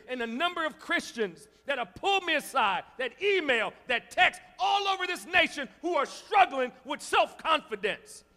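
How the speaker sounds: loud, high, building sermon cry; fiery preaching. Acted. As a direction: preach it out with full fire. Preaching at full force.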